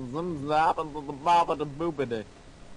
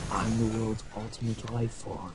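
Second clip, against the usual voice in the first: Shadow voice. Acted. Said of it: "I'm just trying to do the Shadow voice".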